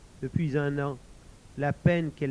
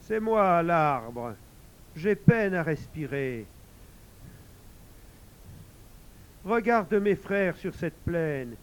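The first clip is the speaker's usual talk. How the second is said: talking tree; 4 semitones higher, slower than usual. Acted. Sick tree speaks to traveler.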